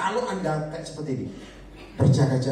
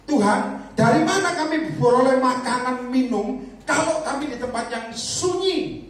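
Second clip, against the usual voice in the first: slow, pleading mock complaint; slow whining doubter; whiny doubting disciple; 6 semitones higher, 4 dB louder, slower than usual.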